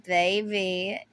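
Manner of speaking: wife sweet-talking an angry husband, whispering; seductive whisper. Retold or imitated. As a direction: coo it to lure him away. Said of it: "she'd be like".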